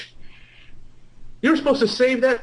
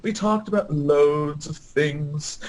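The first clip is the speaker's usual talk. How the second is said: normal talking voice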